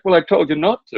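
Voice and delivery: high-pitched mock indignation; retold bickering. Butcher repeating himself to a customer, mock indignant. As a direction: insist pettily, imitating the butcher.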